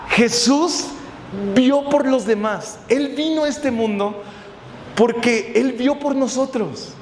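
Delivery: slow, weighty proclamation with long pauses; emphatic preaching. Real, not acted. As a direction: drive each phrase home to the congregation, slowly. Preaches the key point emphatically. (predicación solemne y pausada)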